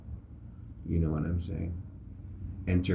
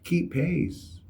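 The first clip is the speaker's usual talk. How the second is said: raised-pitch reenacted call-out; retold yell; 8 semitones higher, slower than usual. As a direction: imitate calling up to the front of a line. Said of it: "I just yell up to the front".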